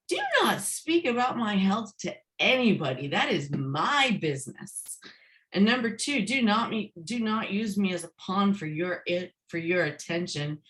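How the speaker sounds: retold firm telling-off, word by word at first; stern boundary-setting. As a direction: lay down the law to a parent. Firm rebuke to mother, acted out.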